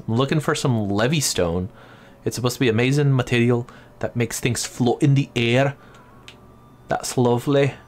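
put-on light Scottish dwarf accent; Scottish accent attempt. Gamer reading dwarf dialogue, light Scottish accent. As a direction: read it with a rough Scottish accent. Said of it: "I can't do this freaking accent".

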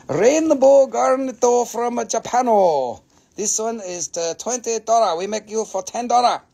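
playing a pidgin-talking Chinese seller, half-joking; mock Chinese accent. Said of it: "Sorry, I went Chinese on you".

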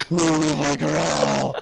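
mock growl. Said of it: "What is growling gonna help you do?".

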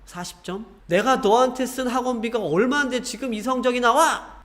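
put-on exasperated parent scolding a child over exam scores, rising sharply to a high, angry peak at the end. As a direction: demand answers like a furious parent.

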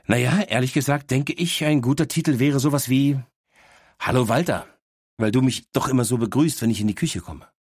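a know-it-all little dog teasing her owner; cheeky talking dog. Acted. Dog Miss Happy speaks. (leicht gesprochene, vorlaute Hündin)

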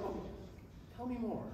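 soft, coy mock invitation; hushed, playful lapping up of compliments; coy eagerness. Mock basking in praise.

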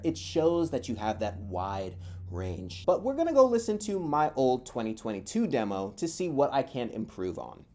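ordinary delivery

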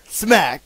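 imitated smack. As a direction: punch the word like a slap. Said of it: "He goes over".

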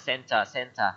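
CENTER repeated as "SEN-tuh, SEN-tuh"; correct pronunciation of CENTER. Shown as a demonstration. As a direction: drill CENTER with a schwa ending. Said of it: "Mình cái đọc là center nha".

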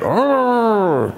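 put-on children's teasing echo; kids mocking. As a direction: mimic the kids' mocking oh. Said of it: "and they went".

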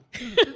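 loud mock sob; hammed-up sudden sob; imitated crying burst. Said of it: "then I start crying".

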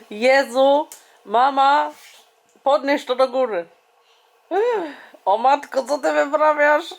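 excited. Real, not acted. Mother marvels at her baby daughter, excited. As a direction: pitch up, delighted disbelief. Mom reacts to baby's antics.

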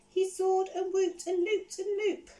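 gleeful storyteller soaring; whooping with joy. A narrator's reading. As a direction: ride the loops up high like a thrilled dragon. Acting out joyful flight.

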